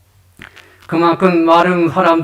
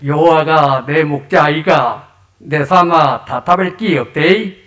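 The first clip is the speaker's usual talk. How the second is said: lightly voiced Chungcheong dialect; a hint of Chungcheong country speech; 3 semitones lower than usual. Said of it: "충청도 버전입니다". (가볍게 흉내 낸 충청도 사투리)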